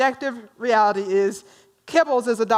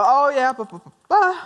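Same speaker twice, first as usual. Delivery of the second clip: dismissive blah blah; 3 semitones higher, 4 dB louder than usual. Retold or imitated. Audience's knee-jerk reaction voiced.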